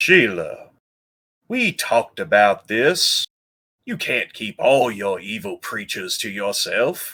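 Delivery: put-on light touch of Southern accent. A storyteller voices a character speaking to Sheila, in a slight southern accent. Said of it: "A little southern accent".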